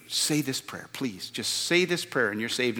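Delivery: put-on retelling a soft plea to kids; pleading. Youth worker urging a gang kid to pray, mildly pleading. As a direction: softly beg the kid to say the prayer. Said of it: "you'd plead with them".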